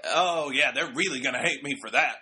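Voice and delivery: lightly voiced Southern-ish heel; a hint of a bad wrestler impression; mildly hammed-up heel talking to himself; Devon. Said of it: "that's my really bad impression of Devon".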